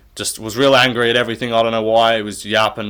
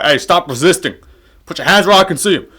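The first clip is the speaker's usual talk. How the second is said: barked cop commands, higher and fast; mock cop; 6 semitones higher, 5 dB louder than usual. Vlogger mocks fighter Joe Pyfer as a shouting cop. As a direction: play a cop yelling at a suspect. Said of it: "Officer Joe Pai".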